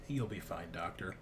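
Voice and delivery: low, soft, even reassurance; calm monotone. Acted. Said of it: "says something in a very calm, monotone voice like".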